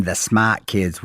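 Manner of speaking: smart said as "smaht" in Boston style; light put-on Boston accent. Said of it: "with my best Boston accent".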